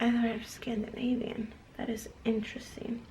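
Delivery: breathy amused whisper to herself. Real, not acted. A vlogger whispering to herself over her DNA results. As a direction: whisper it like a private aside.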